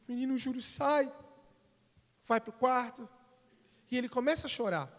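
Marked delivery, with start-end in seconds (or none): none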